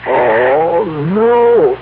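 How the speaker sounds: rising, stricken oh no; dawning horror. Acted. Man realizing the pills meant death, rising horrified oh no. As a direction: let the dread climb up on no.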